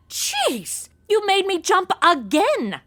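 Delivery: gasping, high startled yelp. Acted. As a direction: jump out of your skin. Startled by gunman.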